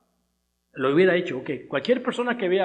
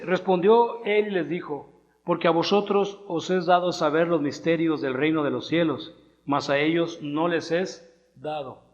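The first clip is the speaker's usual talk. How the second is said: scripture reading. Acted. Reads scripture aloud to congregation.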